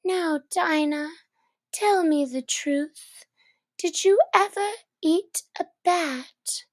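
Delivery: a touch of earnest questioning; gently pressing Dinah for the truth; mildly earnest child voice. A narrator's reading. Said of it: "saying to her very earnestly".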